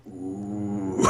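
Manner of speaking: acted ooh. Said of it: "looks at the others and goes".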